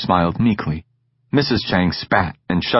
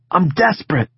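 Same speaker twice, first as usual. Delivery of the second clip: put-on lightly higher, teasing young friend; Egan's voice, cocky; 9 semitones higher than usual. Egan needling Sid about school, teasing. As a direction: tease your friend about his tone.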